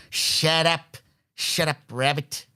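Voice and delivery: put-on voice telling a kid off; mock put-down. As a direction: act out silencing a pest. Answering the imagined whiny kid.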